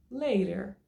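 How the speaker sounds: LATER OU LATER, first tapped, then a true T; tapped then hard T. Shown as a demonstration. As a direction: give both options of LATER, slowly. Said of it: "você pode pronunciar later".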